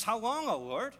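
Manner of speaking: high, loud anguished plea; a loud upset lament to the Lord; upset cry. Retold or imitated. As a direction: cry it out to heaven, distressed. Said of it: "He's upset".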